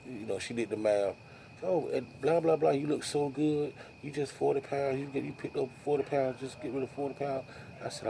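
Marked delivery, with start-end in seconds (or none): 1.6-7.4 higher, mock nagging wife voice; hammed-up wife telling him to lose weight; imitating wife nagging. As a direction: parrot his wife's scolding in a raised pitch. Wife voiced again in story.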